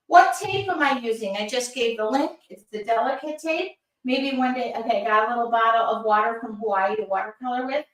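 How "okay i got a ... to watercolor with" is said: P=A; rushed fumble. Real, not acted. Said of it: "wait a minute".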